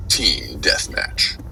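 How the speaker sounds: slow, drawn-out game announcer voice; Halo match announcer. Acted. Voice actor fan imitates the match announcer: slow announcer call. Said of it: "The voice announcer for".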